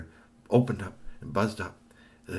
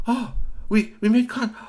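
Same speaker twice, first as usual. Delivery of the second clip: amazed; 6 dB louder than usual. A narrator's reading. Curtis amazed.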